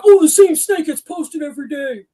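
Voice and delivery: high, loud whiny complaint; mock mad. Mimicking someone mad in an online snake group, mock outrage. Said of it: "there was somebody that got mad".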